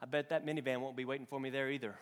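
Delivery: laughing punchline. Retold or imitated. Punchline of the joke.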